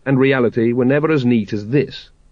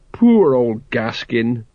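mournful sigh; much slower than usual. Acted. Colon mourning.

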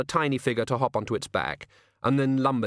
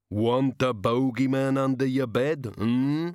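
slow, lightly voiced leer; leering bogeyman; 2 semitones higher, slower than usual. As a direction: menace her, half-teasing. The bogeyman leers.

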